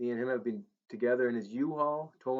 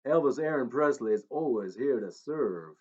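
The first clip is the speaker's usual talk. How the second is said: a famous singer's twang; 5 dB louder than usual. Acted. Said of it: "in an accent not his own".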